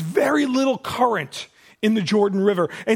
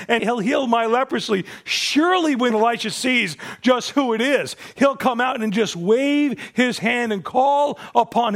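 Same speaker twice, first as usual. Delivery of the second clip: furious Naaman; 3 semitones higher than usual. Retold or imitated. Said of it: "Naaman became furious".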